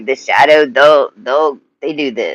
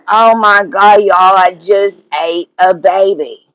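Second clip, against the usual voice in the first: shocked exclaim; 7 semitones higher, 5 dB louder than usual. Retold or imitated. Telling her Polo audience, shocked.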